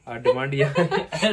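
real laugh breaking into the words; laughing mid-sentence. Real, not acted. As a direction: crack up while announcing. Breaks up announcing the demand.

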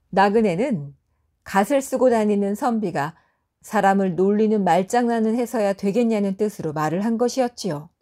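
usual speaking voice

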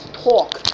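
"Torque" said alone with heavy emphasis; one isolated, emphatic "Torque". Shown as a demonstration. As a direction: punch the word "Torque". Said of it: "put so much emphasis on torque".

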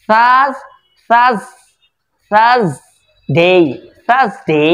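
থার্সডে with a long "aa" after th; drawn-out vowel. Shown as a demonstration. Teacher drilling where to stretch, drawn-out vowel. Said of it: "টান হবে এখানে".

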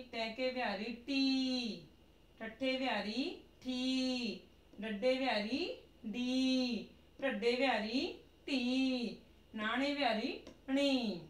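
sing-song drill reading; slow recitation. Shown as a demonstration. Teacher modelling the muharni drill aloud, slow chant. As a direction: chant each syllable slowly for the class.

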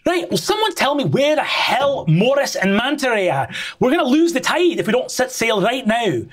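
angry shouting. Acted. Captain Annabelle yells at her crew to sail. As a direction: bark orders at the crew, furious. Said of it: "hear Annabelle shouting angrily".

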